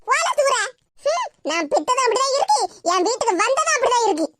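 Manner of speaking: a touch of irritated scolding; annoyed scolding. Acted. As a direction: brush him off, mildly cross. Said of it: "நீ இவ்வளவு கோவமா பேசிக்கிட்டு இருக்க". (லேசான எரிச்சலுடன் திட்டுதல்)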